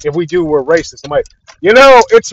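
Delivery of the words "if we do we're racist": mocking fans. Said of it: "what do Star Wars fans think".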